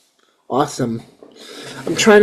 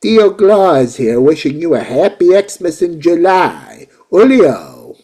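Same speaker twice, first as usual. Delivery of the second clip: jolly Mexican Santa; 3 dB louder than usual. Pretend. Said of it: "I'll be like".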